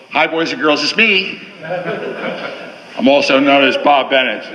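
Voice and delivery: put-on cheery, slow kids' show greeting; overbright kids party host. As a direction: beam at the boys and girls. Greets the room as children's host.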